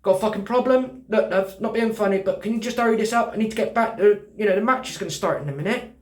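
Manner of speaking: a hint of a brash lad telling the shop girl to hurry up; cocky lad. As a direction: puff up like a mouthy geezer in a hurry. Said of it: "Jack the lad comes out".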